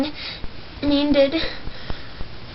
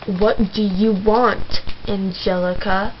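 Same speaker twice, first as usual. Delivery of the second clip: put-on slow and lower, annoyed boy; grumpy Jake; 5 semitones lower, slower than usual. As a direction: drag it out like an irritated boy. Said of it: "he was like".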